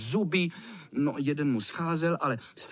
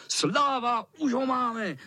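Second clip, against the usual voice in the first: vysoko a nadšeně; zajásat; radostné volání; 8 semitones higher, slower than usual. Acted. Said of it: "volali kluci". (kluci jásají, že kocoura chytí)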